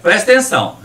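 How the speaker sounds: showing off a Mineiro accent. Shown as a demonstration. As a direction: play up your Minas Gerais accent. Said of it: "deixa eu aproveitar o meu sotaque".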